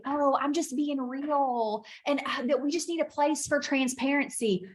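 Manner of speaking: lightly mocking, high sing-songy voice; high-pitched, happy lilt, mildly put on. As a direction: imitate someone cheerfully excusing their complaining. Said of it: "say it in a happy sing-songy voice".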